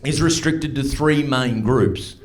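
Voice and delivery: slow, measured newsreader imitation; news lady. News lady announces the outbreak's three main groups, slow newsreader delivery. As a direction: read it out like a bulletin, with deliberate pauses. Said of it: "the news lady said this about it".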